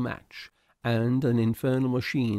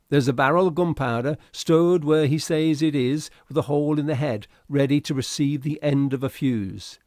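higher, louder urgent sailor's report; urgent first mate; 4 semitones higher, 6 dB louder than usual. Acted. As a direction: report the danger, pressing and urgent.

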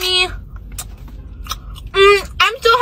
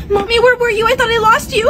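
put-on relieved teary kid; 5 semitones higher than usual. Kid finds mom again.

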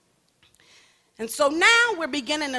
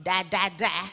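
put-on baby babble; 4 semitones lower than usual. Shown as a demonstration. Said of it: "first syllables ... easy for babies".

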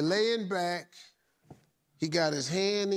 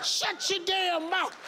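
angry character voice; 12 semitones higher than usual. Acted. Acting an angry outburst.

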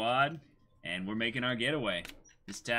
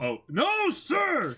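high, loud military-style yell; drill shout; 9 dB louder, much slower than usual. Acted. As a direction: bark it like a pirate crew on parade.

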